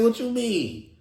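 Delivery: squealing with amusement; high excited laughing. Real, not acted. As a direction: voice jumps up laughing. Laughing retelling, high pitch.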